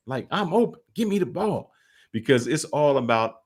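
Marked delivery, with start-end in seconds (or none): 0.3-1.7 Terrell Owens arguing. Retold or imitated. Receiver arguing with his quarterback for the ball, high-pitched protest. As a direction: imitate a player pleading his case in a raised pitch. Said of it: "Terrell Owens was arguing with McNabb".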